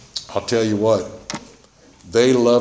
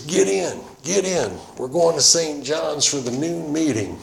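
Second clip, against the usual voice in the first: higher-pitched insistent friend, retold; imitated urging; 6 semitones higher than usual. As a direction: imitate a friend hustling someone into a car. Friend urging him into car.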